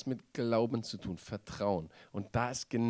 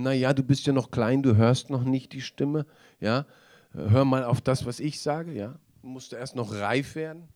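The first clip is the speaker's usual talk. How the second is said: mock condescending leader; 6 dB louder than usual. Leaders patronizing young believers.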